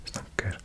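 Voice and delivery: "Snakker" with the R sounded at the end; final R pronounced. Shown as a demonstration. Learner recalling in Swedish you would, "Snakker" with R sounded. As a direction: say "Snakker" softly, keeping the final R. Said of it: "In Swedish you would".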